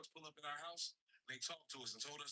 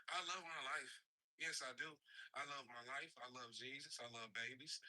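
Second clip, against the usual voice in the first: reassuring; 5 semitones lower than usual. Real, not acted. Reassuring viewers he's fine.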